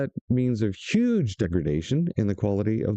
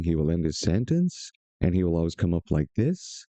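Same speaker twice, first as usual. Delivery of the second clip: "like this" lifted at the end; upward inflection; 6 semitones lower than usual. Retold or imitated. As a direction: imitate his rising sentence ending on "this". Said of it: "upward inflection. Every time he speaks".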